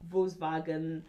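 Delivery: Volkswagen with a V sound in "wagen"; German pronunciation. Shown as a demonstration. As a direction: say Volkswagen as "vos-vagen". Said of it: "The German pronunciation is Volkswagen".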